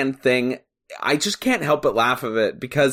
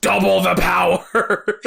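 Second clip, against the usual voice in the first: mock surprise; 3 semitones higher than usual. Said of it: "where it's like".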